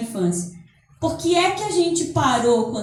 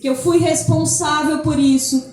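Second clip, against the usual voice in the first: gentle affirmation. Shown as a demonstration. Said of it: "eu comecei a dizer".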